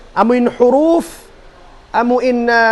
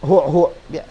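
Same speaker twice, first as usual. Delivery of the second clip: soft low demo sound; 6 semitones lower, 4 dB quieter than usual. Shown as a demonstration. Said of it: "hapang dungog biya".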